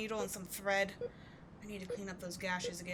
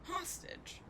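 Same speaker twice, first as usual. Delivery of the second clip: mocking echo; 10 semitones higher, 5 dB quieter than usual. Mocking captive's word.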